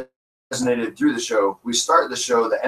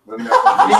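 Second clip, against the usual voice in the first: higher and louder punchline; 10 semitones higher, 5 dB louder, faster than usual. Shown as a demonstration. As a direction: hit the repeat harder. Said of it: "this is a good one".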